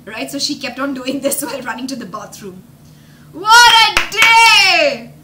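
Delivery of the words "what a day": slow, high, loud exclamation; exclaiming. Real, not acted. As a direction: stretch it out amazed. Exclaiming about the day.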